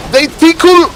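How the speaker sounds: mock high squeak. Caster repeats mocking line higher.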